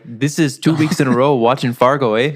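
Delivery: loud put-on Fargo accent; hammed-up Minnesota talk with a tagged-on eh; mock Minnesota accent. Bartender after two weeks watching Fargo, mock Minnesota accent. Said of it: "Carlos is like".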